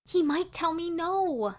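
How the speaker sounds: squealed slowly in worry; worried squeal. Acted. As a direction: let the worry squeeze the voice up. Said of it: "I squealed".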